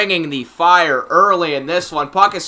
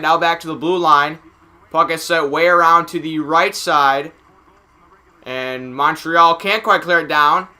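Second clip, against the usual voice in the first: steady live hockey commentary; play-by-play. Real, not acted. Announcer tracking the puck for viewers, play-by-play. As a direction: follow the puck as it moves.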